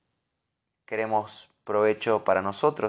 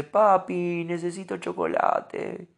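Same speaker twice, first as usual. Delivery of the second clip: lightly voiced small child, a touch higher; child asking; 6 semitones higher, slower than usual. Son asking his dad for chocolate, a hint of a child voice. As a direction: ask Papi for chocolate like a little kid. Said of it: "porque me dice".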